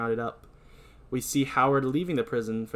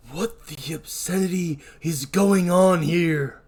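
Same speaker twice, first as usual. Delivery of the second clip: stern demand; 4 semitones higher, 3 dB louder, slower than usual. Acted. Warden confronts a brawl.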